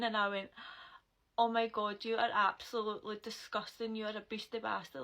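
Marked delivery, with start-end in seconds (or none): 1.4-5.0 retold disgusted outburst. Retold disgust at being spat on.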